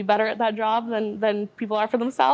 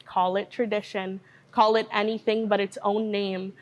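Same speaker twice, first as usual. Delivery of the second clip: measured, rhythmic poem recital with even pitch; spoken word poetry. Acted. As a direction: deliver it as a poem, steady and deliberate.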